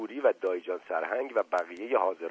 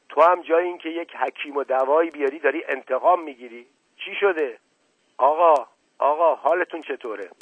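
high, loud, urgent outburst; alarmed shout; 4 semitones higher, 7 dB louder than usual. A narrator's reading. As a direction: cry out in alarm. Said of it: "به طرف او دوید و فریاد زد".

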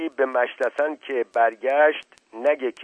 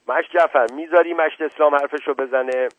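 louder, higher scolding question; stern rebuke; 5 semitones higher, 4 dB louder than usual. Acted. The headman scolds Jafar for interrupting, louder and sharp. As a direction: put the interrupter in his place.

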